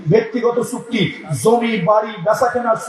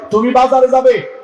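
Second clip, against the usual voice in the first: firmer repeat; 4 semitones higher, 4 dB louder than usual. Acted. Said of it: "repeated louder".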